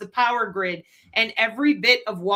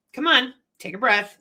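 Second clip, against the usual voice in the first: gentle coaxing. Retold or imitated. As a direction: coax them gently to breathe. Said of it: "is we say".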